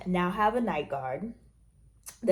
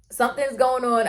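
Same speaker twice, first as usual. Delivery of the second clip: higher and louder, alarmed; worried; 6 semitones higher, 7 dB louder than usual. Retold or imitated. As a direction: tell the dentist something's wrong, urgently. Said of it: "I was like".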